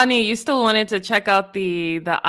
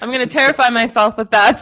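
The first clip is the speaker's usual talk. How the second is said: louder, laughing through the words; 2 semitones higher, 9 dB louder than usual. Real, not acted. Joking about talking computer.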